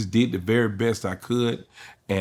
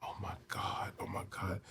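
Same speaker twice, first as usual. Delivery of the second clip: awed whisper; 17 dB quieter than usual. Retold or imitated. Awed whisper after first laugh.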